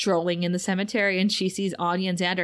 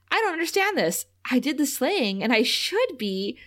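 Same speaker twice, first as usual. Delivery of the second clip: puzzled robot; 4 semitones higher than usual. Retold or imitated. S0 voices the Buffybot.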